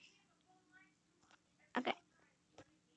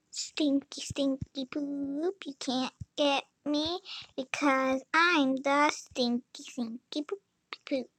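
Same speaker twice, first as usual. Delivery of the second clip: singsong taunt. Real, not acted. Taunting game enemy.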